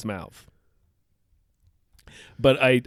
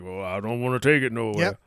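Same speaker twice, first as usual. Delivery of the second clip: a lightly voiced, unbothered comeback; Wilfred. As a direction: answer back in a mild character voice. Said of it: "And Wilfred's like".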